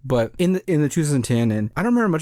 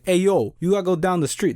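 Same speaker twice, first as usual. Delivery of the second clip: mock pizza guy; 6 semitones higher than usual. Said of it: "That's not how he talked".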